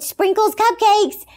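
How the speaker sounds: loud, high, drawn-out cheer; gleeful exclamation. Retold or imitated. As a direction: blurt it out like a thrilling treat. Gleefully reveals the tempting shop.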